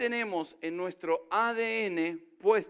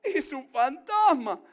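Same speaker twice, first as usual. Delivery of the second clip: mock ghost scare; 5 semitones higher, 4 dB louder, slower than usual. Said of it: "gritaron de miedo, diciendo".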